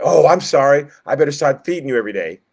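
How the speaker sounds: mock apology. God pictured caving to grumbling people, mock sorry. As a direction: ham up a cringing sorry.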